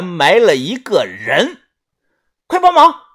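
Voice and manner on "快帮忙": high urgent call for help; urgent shout. Acted. Urgent call while digging.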